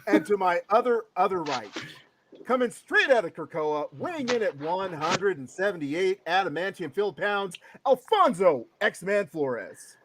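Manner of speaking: mock prize-fight introduction; ring announcer intro. Host weighing in his co-host, ring announcer patter.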